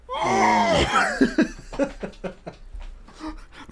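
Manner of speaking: high laughing shout into the mask; laughing yell. Shown as a demonstration. Testing the mask by yelling into it, laughing shout. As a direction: let out a yell that breaks into laughter. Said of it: "if I yell, just go like this".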